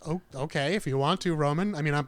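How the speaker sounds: lightly put-on Asian accent; a hint of an Asian accent, casual; Bruce Lee Asian accent. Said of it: "your Asian accent is spot on".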